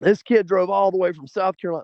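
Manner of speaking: high, play-acted, yelled bullhorn-style announcement. Retelling how he got on the bullhorn and yelled to everybody: retelling a bullhorn yell. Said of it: "he starts yelling out to everybody".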